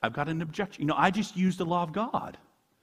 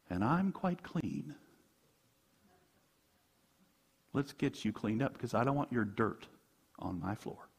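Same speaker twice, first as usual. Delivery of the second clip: smug inner voice; 3 semitones lower, 8 dB quieter than usual. Retold or imitated. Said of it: "often I pull in this idea".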